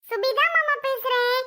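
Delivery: put-on high, excited child's phone voice; eager greeting. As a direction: say who you are with eager, lifted pitch. Child eagerly identifies herself to uncle.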